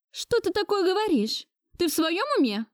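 put-on high, shocked old lady losing her temper; outraged wailing grandmother. A narrator's reading. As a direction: cry out in outraged disbelief. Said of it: "Вышла она из себя, причитая". (бабушка в ярости причитает)

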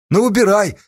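good-natured. A narrator's reading. Gang leader gives the captive a choice, good-naturedly. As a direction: offer it lightly, as a friendly favour. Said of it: "добродушно предложил Ипат".

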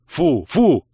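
high, loud yell of disgust. A narrator's reading. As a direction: yell to shoo her off. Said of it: "завопил я".

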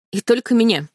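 usual speaking voice

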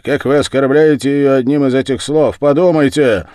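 loud, high-pitched protest; indignant shout. A narrator's reading. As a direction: shout in outrage at an insult. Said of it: "крикнул я".

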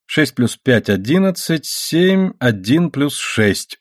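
counting aloud, pausing between sums; подсчёт вслух. A narrator's reading. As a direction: tot up figures aloud, absorbed. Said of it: "вслух подсчитывал Пол". (считая вслух, с расстановкой)

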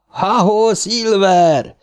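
high whooping call; Bill yelling to the speeding bike; shout. A narrator's reading. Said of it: "kiáltotta Bill".

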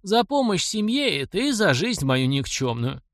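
put-on high, slow elderly voice; quavering old man. A narrator's reading. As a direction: draw it out as a grateful old man. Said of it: "продребезжал старческий голос".

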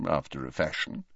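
put-on weak old headmaster mumbling the aside; mumbled. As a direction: let it fall away under breath. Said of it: "mumbled Dumbledore".

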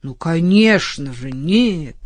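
irritated. Acted. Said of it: "раздражённо проговорил адвокат".

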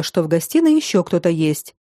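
ordinary delivery, nothing marked

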